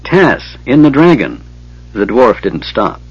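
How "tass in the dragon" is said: high, urgent shout while running. Acted. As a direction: call it back over your shoulder. Dwarf shouts back running.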